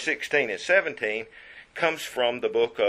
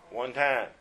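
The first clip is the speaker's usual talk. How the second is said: normal talking voice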